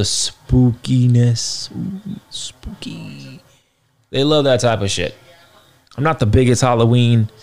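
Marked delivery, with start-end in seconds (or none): 0.0-3.4 spooky voice. Pretend.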